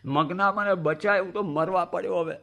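comic drowning plea; calling for help. Retold or imitated. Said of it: "બૂમ પાડી".

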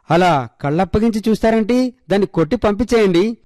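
half-shouted plea to chase it off; frightened shout. A narrator's reading. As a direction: panicky mother yelling, pitched high. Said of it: "Girija గట్టిగా అరిచింది". (భయంతో గట్టిగా అరుపు)

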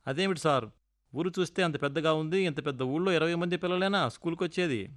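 lightly surprised question; a touch of astonishment at the tiny school. Retold or imitated. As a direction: ask in mild disbelief. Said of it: "అన్నాను ఆశ్చర్యంగా".

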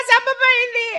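weeping complaint; crying. Acted. Wife weeps to her husband that she can't go on. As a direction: sob out the complaint.

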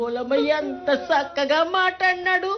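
low, broken mourning wail; keen over the dead; sobbing lament. Acted.

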